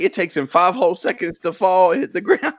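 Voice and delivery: lightly imitated stand-up punchline; Cat Williams. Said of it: "Cat Williams is talking, and he's like".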